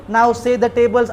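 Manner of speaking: slow drawn-out teacher command; mock teacher. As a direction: drag it out like a schoolteacher. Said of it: "मग teacher म्हणायचे".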